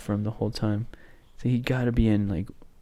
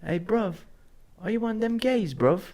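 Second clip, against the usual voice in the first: a mock New Zealand accent, higher; New Zealand-ish accent; 9 semitones higher than usual. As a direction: quote it again as a Kiwi lad. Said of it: "my accent".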